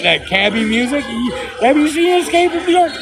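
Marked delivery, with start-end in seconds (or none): 1.6-2.9 laughing question. Real, not acted.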